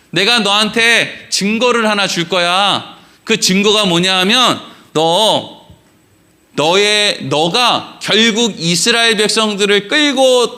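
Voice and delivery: slow, weighty divine promise; solemn God. Retold or imitated. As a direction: speak slowly as God reassuring Moses. (모세에게 천천히 약속하는 하나님)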